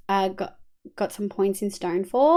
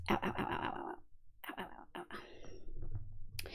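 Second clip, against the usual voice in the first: mock ow; 23 dB quieter than usual. Quiet mock pain.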